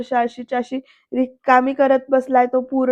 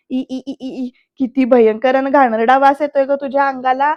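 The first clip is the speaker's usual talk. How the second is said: mock disgust; 4 dB louder than usual. Shalaka taunting Anandi about the smell, acted disgust. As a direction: recoil from a stink as you speak.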